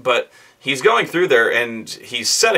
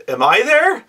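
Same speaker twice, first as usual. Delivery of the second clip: mock question; 11 semitones higher, 4 dB louder than usual. DM mimics player's question.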